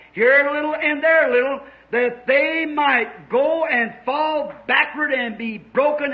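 slow, chant-like preaching cadence; scripture recitation. Real, not acted. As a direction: intone each phrase evenly for the congregation.

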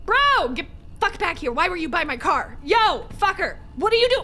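high shout of alarm; yelling at him. Real, not acted. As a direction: call out, rattled and loud. Yelling at stranger by car.

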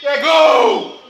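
high, loud, laughing shout; explosive goal commentary. Real, not acted. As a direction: yell the goal with joy. Celebrates the goal live. (narração de gol explosiva)

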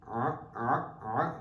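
short separate "Ah" with the Ain throat sound. Shown as a demonstration. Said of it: "the Ain sound".

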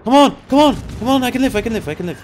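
rising, frantic hope; excited. Real, not acted. Teammate draws fire, he survives.

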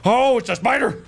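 high, loud yelp of alarm; alarmed cry. Real, not acted. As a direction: cry out at a sudden spider. Spider appears in the game.

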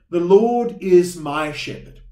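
slow, clear call for the congregation to repeat; leading a recitation. Shown as a demonstration. Pastor leading the congregation in reciting, slow and clear. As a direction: read it out slowly so all can join. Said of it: "can you say this with me".

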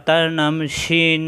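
slow, deliberate letter name; slow naming. Shown as a demonstration. Teacher naming a letter slowly for pupils. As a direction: say it slowly for the class. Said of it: "সিনের উপর তিন ফোঁটা".

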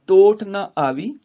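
ਤੋਟ ਨਾ ਆਵੀ slow, loud, then a brief halt; half pause after ਆਵੀ. Shown as a demonstration. Teacher marks the half pause after ਤੋਟ ਨਾ ਆਵੀ. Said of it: "ਅਰਧ ਵਿਸਰਾਮ ਦੇ ਕੇ".

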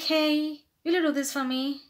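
casual attention-grabbing request; too direct. Shown as a demonstration. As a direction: call out and demand a favour bluntly. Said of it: "do not say directly".

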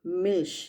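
German pronunciation of മിൽഷ്; German word Milch. Shown as a demonstration. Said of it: "എമ്മിന് example വരുന്നത് മിൽഷ്".

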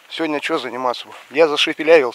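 lisping after a pulled tooth. Real, not acted. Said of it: "слышите?".

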